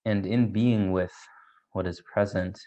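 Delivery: measured meditation guide with long pauses; unhurried meditation leading, pausing between thoughts; guided meditation. Real, not acted. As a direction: guide listeners gently inward, leaving space between phrases.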